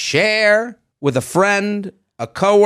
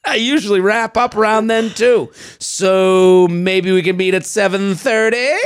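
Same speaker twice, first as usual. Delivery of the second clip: wannabe-cool dad. Acted. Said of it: "Okay, here's him".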